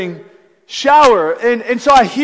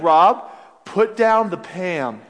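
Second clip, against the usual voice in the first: slow, lower deadpan repeat; calm mock echo; 3 semitones lower, much slower than usual. Other roommate calmly echoing the warning, deadpan. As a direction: echo it slowly and flatly. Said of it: "Noah, our other roommate's like".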